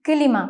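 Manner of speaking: "കിലിമ" with a short vowel between k and l; Turkish pronunciation. Shown as a demonstration. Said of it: "കിലിമ എന്നാണ് വായിക്കേണ്ടത്".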